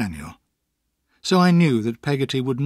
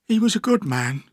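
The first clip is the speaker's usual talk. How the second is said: tearful; 6 semitones higher than usual. A narrator's reading. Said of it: "with tears in her eyes".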